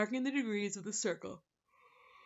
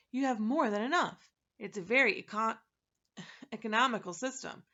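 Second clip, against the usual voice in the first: impatient; 2 semitones higher, 6 dB louder than usual. Acted. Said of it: "he said impatiently".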